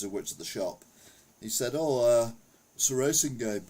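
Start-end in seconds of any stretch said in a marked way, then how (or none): 1.7-3.7 lightly imitated Scouse accent; a hint of Liverpool Scouse, casual. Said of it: "he said it in a Scouse accent".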